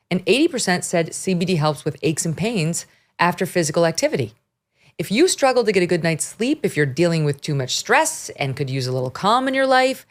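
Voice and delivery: smooth host-read ad; steady, friendly ad read. Acted. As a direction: sell it like a podcast sponsor spot. Reads an ad.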